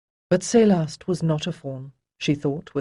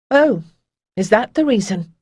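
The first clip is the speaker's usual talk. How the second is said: a mock-surprised "Oh", higher and louder, then dry; sarcastic; 5 semitones higher, 7 dB louder than usual. A narrator's reading. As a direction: needle her with a sarcastic little jab. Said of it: "Demisa heard the sarcasm in her own voice".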